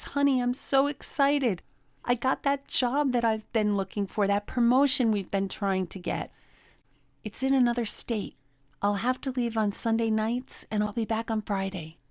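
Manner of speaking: lightly voiced happy partner; mild excitement. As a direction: share good news with a spouse. Partner announces new job.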